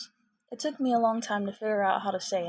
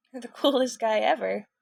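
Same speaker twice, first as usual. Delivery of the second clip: louder, laughing mid-sentence; 3 semitones higher, 8 dB louder than usual. Acted. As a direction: break into a laugh on coolest. Laughing through a compliment.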